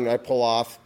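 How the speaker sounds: ordinary talk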